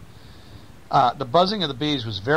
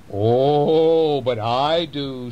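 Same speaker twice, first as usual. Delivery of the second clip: mouse voice; 3 semitones higher, much slower than usual. Acted. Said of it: "said the mouse".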